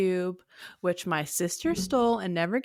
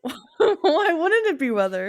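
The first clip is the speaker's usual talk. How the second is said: laughing; 5 semitones higher, 3 dB louder than usual. Real, not acted. Laughing while defending the bit.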